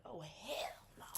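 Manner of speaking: slow whispered hell no; whispered refusal. Retold or imitated. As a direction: breathe the refusal slowly. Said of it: "you be like".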